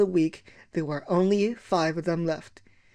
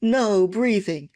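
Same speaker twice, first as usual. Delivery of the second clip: strict teacher order; 3 semitones higher, 4 dB louder, slower than usual. Retold or imitated. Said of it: "She used to stand out the front going".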